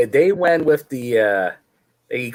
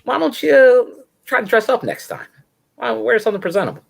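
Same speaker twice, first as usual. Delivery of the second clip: higher, mock-stern scolding voice; 10 semitones higher than usual. Host mocking the interviewer's scolding about dress. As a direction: lecture him about dressing up.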